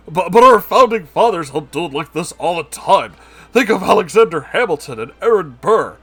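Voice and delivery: loud, high nerdy pleading; whiny excuse. Acted. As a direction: plead a ridiculous case. Lewis argues with officer.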